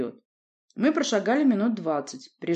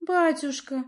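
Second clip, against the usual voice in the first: put-on «Батюшка» said timidly in a higher young girl's voice; cautious girl; 10 semitones higher, 5 dB louder, slower than usual. A narrator's reading. Teen princess cautiously addresses her father, timid. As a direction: address father carefully, unsure of his mood. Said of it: "осторожно обратилась она".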